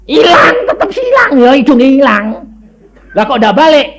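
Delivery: high crying shout of dismay. Acted. Preacher acting a sinner's dismay, crying shout. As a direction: wail it, as if the nose is truly gone. Acted dismay at nose lost.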